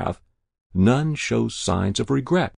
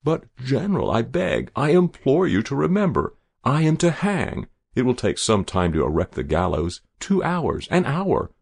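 pleading; 5 semitones higher than usual. Acted. Condemned spy begs for his life.

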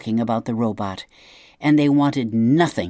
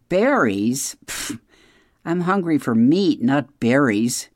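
scoffing. Acted. Fox scoffs at berries.

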